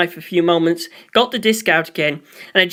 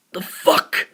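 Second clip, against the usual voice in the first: breathy stunned whisper. A narrator's reading. Funnier whispers in shock at the horned man, hushed. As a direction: breathe it out, barely voiced. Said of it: "Funnier whispered".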